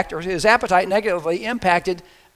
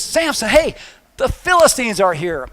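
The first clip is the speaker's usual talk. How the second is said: alarm call; 4 semitones higher than usual. Retold or imitated. Delilah's alarm call again.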